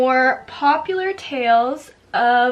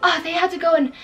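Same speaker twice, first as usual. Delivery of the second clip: mock heroic tale; 5 semitones higher than usual. Mock heroic boy story quote.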